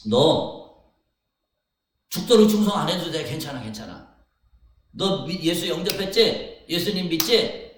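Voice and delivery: hammed-up soothing reassurance, loud and high; mock coaxing Jesus. Preacher mocking an easy-grace Jesus, coaxing. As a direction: coax like a false comforter. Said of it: "그럴 거 아니에요, 예수님".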